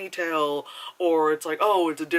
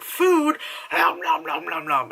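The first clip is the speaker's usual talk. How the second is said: mock hungry kid; 3 semitones higher, 5 dB louder than usual. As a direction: play a starving kid gobbling food. Mocking movie's abused-child trope.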